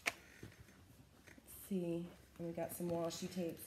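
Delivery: soft whispered aside. Real, not acted. Vlogger whispers while digging in the box. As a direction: whisper it to yourself.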